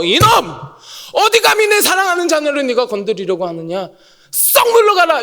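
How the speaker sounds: rising stern rebuke, loudest on the last order. Pretend. God rebuking Satan for touching his child, with a rising stern shout. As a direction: drive the intruder off with a commanding shout.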